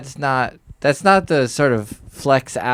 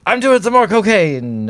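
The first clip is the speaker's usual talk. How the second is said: mocking libertarian voice; 10 semitones higher, 6 dB louder than usual. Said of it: "the libertarians are mostly just like".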